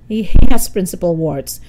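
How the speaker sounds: nervous burst on the first word; gulp, then answer the boss. Acted. Mister Simmons caught by the principal, nervously gulping. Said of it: "Mister Simmons gulped".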